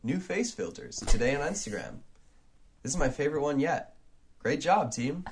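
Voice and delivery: lightly voiced tech CEO; a hint of a flat announcement; Mark Zuckerberg impression. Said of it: "this is what he sounds like".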